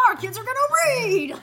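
high loud laughing proclamation; laughing mock shout. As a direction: shout it through laughter, hammed-up. Mock proud shout while laughing.

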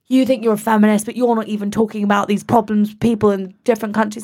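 hammed-up mansplaining; mock man lecturing. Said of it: "And this man went".

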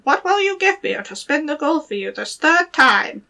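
high squeaky little goblin voice; gravelly sly hobgoblin. Acted. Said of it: "that dwarf came in and said".

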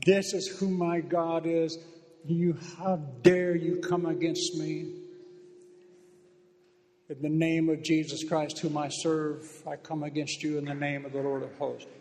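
slow, emphatic spiritual warfare declaration; declaring against the enemy. Shown as a demonstration. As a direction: proclaim each word slowly with authority. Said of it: "You tell it".

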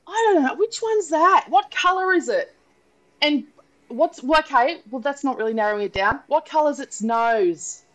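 high, puzzled questioning voice; mock confused pet sitter; confused house sitter. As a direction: play the baffled house sitter.

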